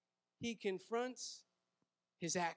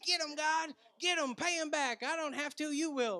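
higher, louder, imitating an eager plea for payback; mock vengeful prayer; 6 semitones higher, 4 dB louder than usual. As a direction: act out begging God to get them.

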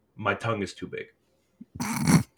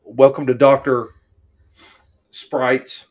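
show host intro; 8 dB louder than usual. Pretend. Show-host welcome bit.

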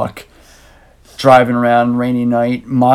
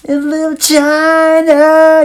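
slow, high, dramatic title read; movie trailer voice; 9 semitones higher, 5 dB louder, much slower than usual. Acted. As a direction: announce it like a trailer.

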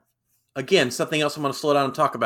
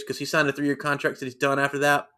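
usual speaking voice

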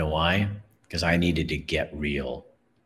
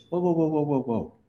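mild interruption; 10 semitones higher than usual. Acted. Toy maker cuts off apology.

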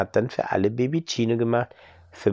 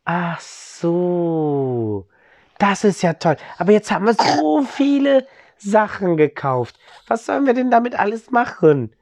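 put-on high child voice, a bit louder; 10 semitones higher, 4 dB louder than usual. Children ask their parents about the bread: high child voice. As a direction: kids wondering what to do with the bread, pitched high.

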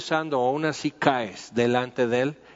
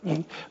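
throat clearing; 3 semitones higher, 7 dB quieter than usual. Shown as a demonstration. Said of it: "se te atora algo en la garganta".

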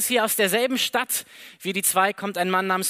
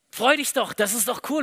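excited; 3 semitones higher than usual. Retold or imitated. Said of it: "du bist so begeistert".

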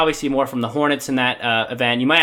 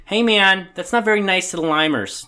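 laid-back stoner dude, pitched up; hippie man voice; 8 semitones higher, 4 dB louder than usual. Pretend. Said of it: "it's my hippie man voice".

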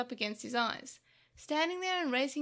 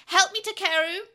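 high, loud hammed-up cry for help; exaggerated pain; 6 semitones higher, 10 dB louder than usual. A narrator's reading. Devimon plays hurt to win Takeru, exaggerated screaming. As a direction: scream as the fake victim. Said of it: "screamed out ... in exaggerated pain".

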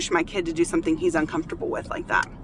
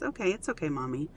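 soft little-boy reassurance, lightly imitated; gently reassuring; 7 dB quieter than usual. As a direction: softly let Mom off the hook, as a child would. Retold young son reassuring mother.

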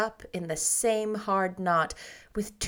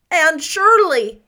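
loud, high, drawn-out cry of surprise; startled delighted cry of the name; surprised exclamation; 7 semitones higher, 11 dB louder, slower than usual. Acted. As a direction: call her name out in astonishment. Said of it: "exclaimed Marilla".

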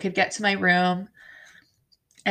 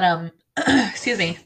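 usual speaking voice

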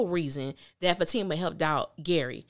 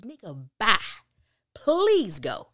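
dismissive brush-off; 4 dB louder, slower than usual. Retold or imitated. Dismissing Andy, retold.

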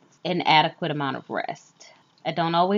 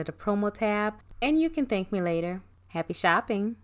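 upbeat sponsor read; 4 dB quieter than usual. Acted. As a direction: sell it like a radio ad.

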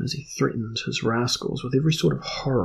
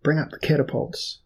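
raised commanding call; 5 semitones higher than usual. Acted. Earl commands his men to the catapults. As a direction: order the catapults up. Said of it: "Saxif Dan commanded".

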